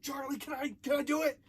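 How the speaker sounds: high, loud excited plea; high pitched eager asking; eager begging. Retold or imitated. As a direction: beg the boss like a kid. Begging to ban the kids.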